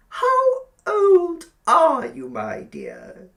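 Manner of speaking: high, loud, cloying landlady voice; sugary old landlady. A narrator's reading. Landlady inviting Billy to sit by the fire, cloying. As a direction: coax him over like a spider.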